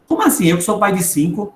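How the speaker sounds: leaping high on the question; pulling rank, acted affront; indignant disbelief. Father of five challenged by youngest, indignant disbelief.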